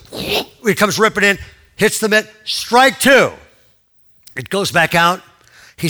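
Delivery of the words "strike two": high, loud call of a strike; umpire's call. Retold or imitated. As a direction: shout it like an umpire. Retold umpire calls second strike.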